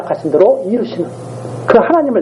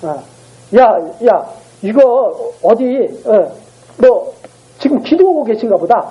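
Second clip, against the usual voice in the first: raised-pitch teasing, in broken bursts; mock taunting; 4 semitones higher than usual. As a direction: taunt them, pretending to guess where their god went. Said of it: "하면서 막 계속 조롱한 거야".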